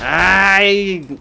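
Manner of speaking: high loud pained cry; startled yelp. Real, not acted. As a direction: yelp in sudden alarm. Hit while running.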